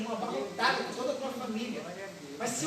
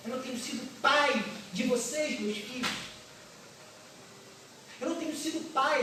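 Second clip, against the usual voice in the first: repentant father; 2 semitones higher than usual. Acted. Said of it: "diz assim".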